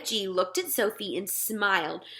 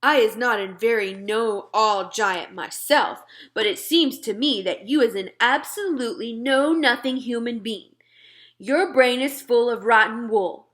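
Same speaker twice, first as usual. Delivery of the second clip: a lightly voiced gentle giant, a touch louder; friendly giant talking to a little girl; BFG giant voice; 4 dB louder than usual. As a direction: play the big friendly giant, earnest and muddled. BFG voice held.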